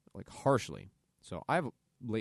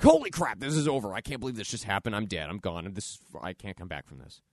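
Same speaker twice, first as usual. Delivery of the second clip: mock panic; 5 dB louder than usual. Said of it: "We're like".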